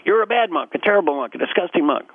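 lightly acted indignant scolding; mock angry. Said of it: "is angry".

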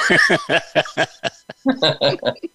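amused laugh. Real, not acted. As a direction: let a real laugh roll out. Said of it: "laughs after accent demo".

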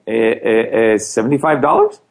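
stammering, unsure of the answer; mock stammer. Telling friends about his class, stammering unsure. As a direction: stutter out the answer like you don't know.

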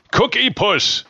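goofy high-pitched product call; old commercial voice. Retold or imitated. Host cracking himself up with an old ad, comic high voice. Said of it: "did a lot of commercials".

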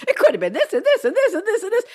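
high, fast, laughing list. Real, not acted. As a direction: rattle it off while cracking up. Laughing while listing examples.

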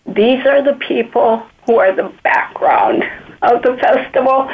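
fighting tears while speaking; teary-eyed. Real, not acted. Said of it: "I'm getting teary-eyed".

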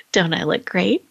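preen like a cowboy in the doorway; imitating husband showing off. Host imitates husband tipping his hat, playful swagger. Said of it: "He goes".

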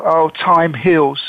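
slow quoted saying. Retold or imitated. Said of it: "They say".

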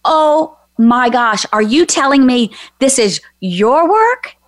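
slow, dawning astonishment; retold amazement. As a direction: act out a wondering question, stretching the opening. Retells her astonished realization.

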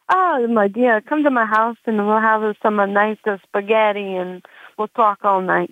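playful mock-Italian accent. Italian guy inviting her for spaghetti, in an Italian accent. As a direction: invite someone over like an Italian suitor. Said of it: "anything, Italiano".

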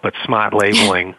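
broad Boston accent. Real, not acted. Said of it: "my Boston accent will come out".

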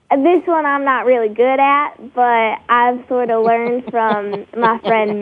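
amateur attempt at a Southern accent. Shown as a demonstration. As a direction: try a Texas-Louisiana Southern accent. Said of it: "a Southern accent".

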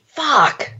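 "fuck" stretched out slowly as one word; slow, emphatic "fuck". Shown as a demonstration. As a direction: draw out "fuck" with weight. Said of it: "say it with such emphasis".

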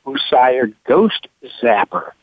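ordinary talk, nothing marked

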